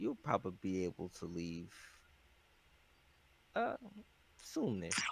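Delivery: quiet hushed voice. Telling a character something so the captain won't hear: hushed tone. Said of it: "like a hushed tone".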